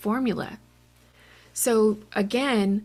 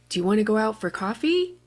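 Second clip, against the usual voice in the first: "coffee?" rising at the end, quick and louder; rising English question; 4 dB louder, faster than usual. Shown as a demonstration. Teacher showing English question intonation, rising. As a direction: lift the tune up on "coffee?". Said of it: "the pitch goes up at the end".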